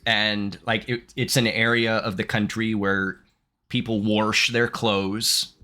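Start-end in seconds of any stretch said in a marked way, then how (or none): 4.0-4.5 "wash" said as "worsh"; regional pronunciation. Shown as a demonstration. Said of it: "still talk like that".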